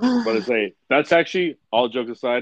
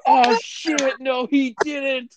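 put-on higher, drawn-out shocked kid; playful, higher "no he didn't"; mock kid gasp; 10 semitones higher, much slower than usual. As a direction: act the stunned kid, slowly. Kids reacting in disbelief.

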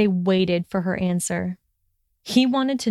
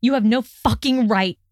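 raised enraged voice; 3 semitones higher than usual. Acted. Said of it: "too enraged".

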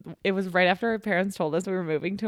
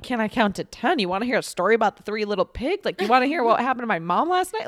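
put-on rising, faster, louder eager child; eager kid rambling; 3 semitones higher, 5 dB louder than usual. Concussed kid to paramedics, eager and rushing. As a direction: show off everything you know, tumbling fast.

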